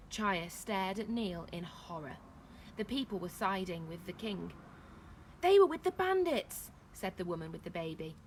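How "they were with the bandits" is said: loud, high denouncing; shouted accusation. A narrator's reading. Woman with baby to villagers, shouted accusation. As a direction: denounce them to a crowd.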